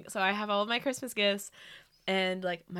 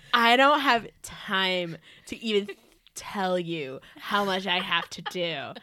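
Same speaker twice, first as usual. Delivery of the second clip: mildly dramatic retort; a touch of diva exasperation. Retold or imitated. Lightly voiced drama queen. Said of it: "in the most dramatic way".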